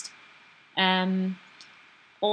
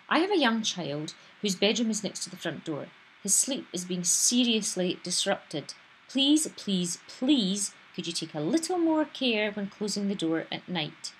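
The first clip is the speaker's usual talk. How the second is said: beseeching; 2 semitones higher than usual. Shown as a demonstration. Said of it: "there's an anger there ... an imploring, beseeching tone".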